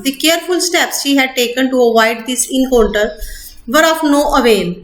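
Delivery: slow, deliberate textbook reading; measured classroom reading; slow reading aloud. Acted. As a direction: read each word out carefully for students. Reading English text aloud slowly.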